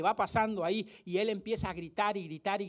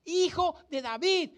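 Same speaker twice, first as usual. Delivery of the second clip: drawn-out, higher-pitched cry for mercy; retold shouting; 6 semitones higher, 3 dB louder than usual. Preacher acting the blind man calling to Jesus, retold shouting. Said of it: "empieza a gritar".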